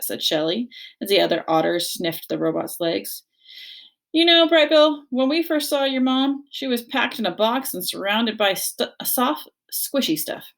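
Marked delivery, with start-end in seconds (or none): 4.1-10.5 high, lively storytelling otter; excited otter recalling. A narrator's reading.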